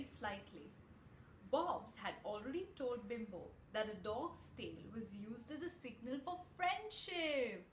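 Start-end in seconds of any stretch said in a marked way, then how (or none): none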